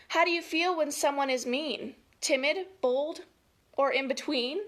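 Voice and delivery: put-on lilting, emphatic read-aloud for children; story time delivery; picture-book reading. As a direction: read each feeling word out clearly, with lift.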